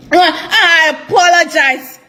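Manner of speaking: a slow, laughing mock apology; mock-contrite, chuckling. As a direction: drag out a sarcastic I apologize. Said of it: "That apology there".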